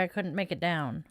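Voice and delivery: soft, breathy whispered apology. Real, not acted. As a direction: say sorry in a hushed whisper.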